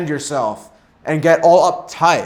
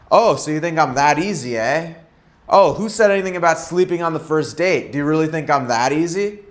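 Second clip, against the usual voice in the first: light teasing comeback, a bit quicker; playful tone; faster than usual. Shown as a demonstration. Coach answers a woman's tease in a playful tone. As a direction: toss it back playfully, unbothered. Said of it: "in a more playful tone".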